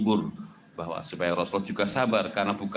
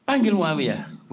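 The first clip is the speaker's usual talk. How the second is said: high, slow, loud command; stern snapping order; 7 semitones higher, 5 dB louder, slower than usual. Retold or imitated. Prophet snapping at the boy hiding behind the door. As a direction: bark the order at the child. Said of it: "Nanti membentak kan?".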